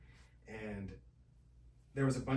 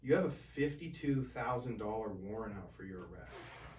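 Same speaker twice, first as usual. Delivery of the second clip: stern commissioner; 3 semitones lower, 4 dB quieter than usual. Retold or imitated. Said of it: "she goes".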